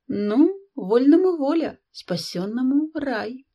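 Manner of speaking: slow, resigned sigh on the proverb; mild sighing resignation. A narrator's reading. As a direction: let it out with a sigh. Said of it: "промолвила она, вздохнувши".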